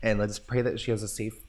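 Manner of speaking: hushed prayer whisper. Real, not acted. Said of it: "Why are you whispering?".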